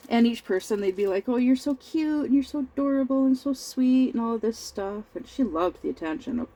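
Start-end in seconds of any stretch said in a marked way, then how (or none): 1.3-4.1 higher-pitched adoring gush; mock cooing, pitched up; cooing over a baby. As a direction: lightly imitate guests fussing over a baby.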